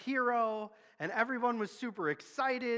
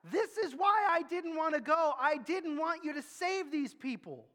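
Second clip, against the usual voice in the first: higher-pitched, aggrieved protest to God; Jonah's angry complaint; 5 semitones higher than usual. Retold or imitated. Jonah complains to God about saving Nineveh, aggrieved and higher. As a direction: vent the grievance like a wronged man. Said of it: "gets mad, says".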